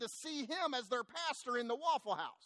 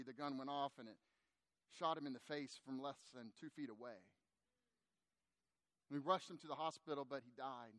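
tearful retelling; 4 semitones lower, 6 dB quieter than usual. Retold or imitated. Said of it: "instantly tears began to".

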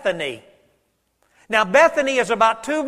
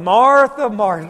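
calling out by name; 5 dB louder than usual. Acted. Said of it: "I want you to look at verse forty-one".

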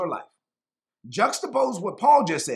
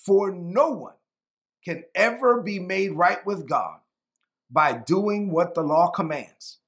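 slow, deliberate scripture reading with pauses between phrases; measured reading, letting each phrase land; real slow reading. Real, not acted. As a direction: read it phrase by phrase, unhurried. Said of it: "I'm gonna read this real slow".

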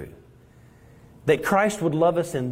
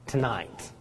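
tender Christ; 2 semitones lower, slower than usual. Acted. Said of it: "In the words of a song".

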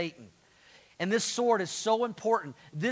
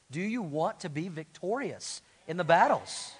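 repeated question pushed out louder; asking again, louder. Shown as a demonstration. Pastor repeating his question louder to get the congregation to answer. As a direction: ask it again and make them answer. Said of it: "Let me ask you that again".

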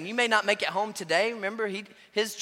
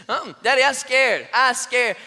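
put-on higher, louder toddler whine; scared little girl; 4 semitones higher, 9 dB louder than usual. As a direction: refuse like a frightened child. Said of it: "And she's just".

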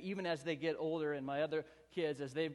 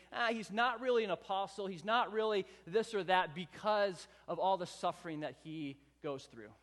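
mocking critics; 4 semitones higher, 5 dB louder than usual. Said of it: "They're saying".

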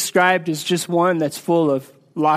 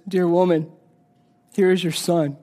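lower, gentle take of Dear woman; tender; 3 semitones lower than usual. Acted. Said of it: "he knew that Mary needed, needed to hear his voice".

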